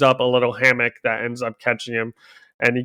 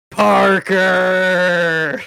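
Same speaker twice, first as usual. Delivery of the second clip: goblin voice; 5 semitones higher than usual. Acted. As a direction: sneer his name like a goblin. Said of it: "you can do a better goblin voice than that".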